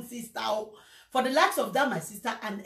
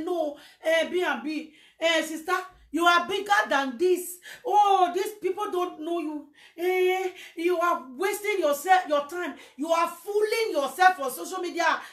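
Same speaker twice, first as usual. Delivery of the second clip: quoted friend scolding; 6 semitones higher than usual. Retold or imitated. Friend scolding the speaker for wasting time online. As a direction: voice the friend's pitying rebuke. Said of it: "came out and said".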